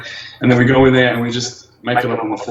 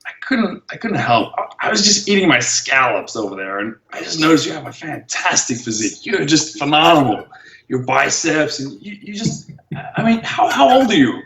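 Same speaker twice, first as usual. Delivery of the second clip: impression of stranger; 2 semitones higher than usual. The old man at the cafe admiring him, lightly voiced gushing. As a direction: gush over the physique in a fawning voice. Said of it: "he goes".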